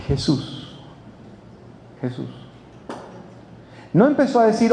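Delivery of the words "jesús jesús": soft, low calling of a name; hushed, lowered imitation of a cry; understated retold cry. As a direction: call out in mock restraint, barely voiced. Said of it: "Comenzó a dar voces".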